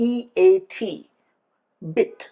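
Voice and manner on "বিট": বিট said with a long stretched ee; long ee in beat. Shown as a demonstration. Teacher demonstrating beat with a long vowel. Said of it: "এটার উচ্চারণ হওয়ার কথা ছিল বিট".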